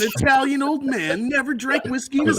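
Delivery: dramatic movie trailer narration. Acted. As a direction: announce it like an epic film trailer. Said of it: "movie trailer guy narrate all of it".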